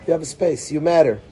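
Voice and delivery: "You have a space." repeated softly, You still leading; soft reassurance. Shown as a demonstration. Teacher repeating to the child, soft and reassuring.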